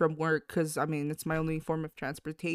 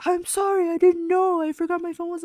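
mock sheepish dad; 11 semitones higher, 6 dB louder than usual. Dad's apology mimicked.

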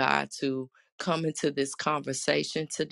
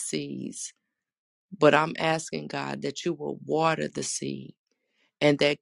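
earnest spoken prayer. Acted. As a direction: pray aloud to the congregation. Leads an opening prayer.

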